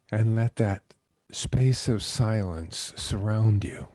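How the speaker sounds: measured guiding voice with long pauses; guided meditation. Acted. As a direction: lead them into calm, phrase by unhurried phrase.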